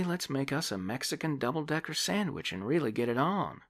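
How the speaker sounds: put-on high, loud young woman bragging; a young woman boasting about her friend; boastful young woman. Debbie voiced in the story.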